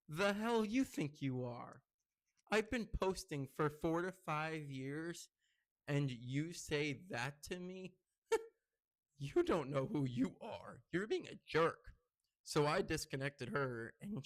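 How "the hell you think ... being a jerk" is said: slow, drawn-out, offended comeback; indignant retort. Retold or imitated. Vlogger retelling his reply to a critical date, indignant.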